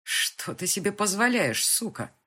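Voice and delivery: loud, slow, furious accusation; angry man berating the girl; angry demand. Acted. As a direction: bear down on позволяешь with rage.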